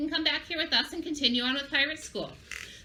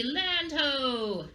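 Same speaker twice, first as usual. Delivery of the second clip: drawn-out lookout call; piratey call; 3 semitones higher than usual. Shown as a demonstration. Teacher leading children in the land-spotting call, piratey. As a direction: lead children in calling it out. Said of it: "Say it with me".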